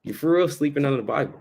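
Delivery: a light impression of casual street slang. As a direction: imitate someone telling you you're missing out. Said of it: "like how they say in the world".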